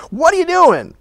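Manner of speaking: high-pitched mock scolding; seething anger. Parents returning for their lost son, acted anger. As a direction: act out an exasperated parent. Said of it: "find them seething and angry".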